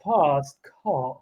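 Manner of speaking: British-accented demo with long open vowels. Shown as a demonstration. Asked to say it for the viewers, British accent. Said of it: "can you just say fast car".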